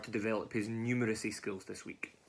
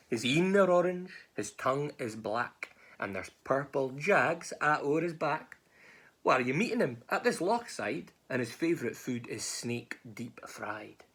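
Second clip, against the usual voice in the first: drawn-out, relished monster description; dramatic storytelling; 3 semitones higher, slower than usual. Acted. Mouse warning snake about the gruffalo, slow dramatic relish. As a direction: stretch each detail out slowly.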